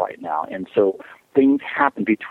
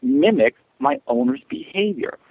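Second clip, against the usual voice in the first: higher, slow voicing of a dog's thought; realizing dog; 8 semitones higher than usual. Dog looks up at owner and realizes, slow dawning voice. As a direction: act out a dawning realization, slowly. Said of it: "And he realized".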